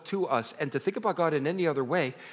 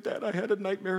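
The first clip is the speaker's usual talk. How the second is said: higher-pitched, lightly acted scared boy; retold small-child fright, pitched up; frightened child; 6 semitones higher than usual. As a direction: mildly imitate a child after a nightmare. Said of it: "he's shaking and quivering".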